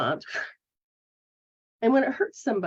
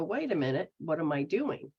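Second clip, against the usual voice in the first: soft, hushed wondering to yourself; quiet self-check; 5 semitones lower, 5 dB quieter than usual. Retold or imitated. Person honestly examining their own behaviour, soft and hushed. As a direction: pull back and quietly question yourself. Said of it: "step up to the plate and go".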